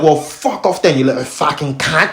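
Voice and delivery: lightly mocked Cockney police officer; imitated Cockney. Officer dismissing him after the stop, mock Cockney. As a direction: send the man off in a mild Cockney accent. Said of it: "with his little fucking Cockney accent".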